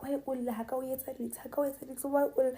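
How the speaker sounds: psychotic guy. Retold or imitated. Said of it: "when someone is acting psychotic".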